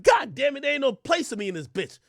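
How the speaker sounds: mock-exasperated yell; frustrated shout. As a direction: bark it out, fed up. Frustrated at being excluded.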